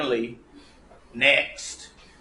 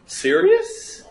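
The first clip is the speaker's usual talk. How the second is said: surprised; 12 semitones higher than usual. Real, not acted. Student typing all this in.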